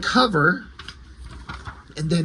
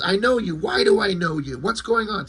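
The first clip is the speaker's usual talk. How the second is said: higher-pitched agitated questioning; half-hearted panic in a retelling; mock freak-out; 5 semitones higher than usual. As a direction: act out a mild freak-out. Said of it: "freaking out for some reason".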